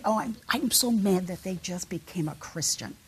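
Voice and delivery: a lightly voiced whiny complainer, quick and huffy; mock self-pitying rant, rushing the middle lines; grumbling churchgoer. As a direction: act out a resentful long-time believer griping. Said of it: "They don't say".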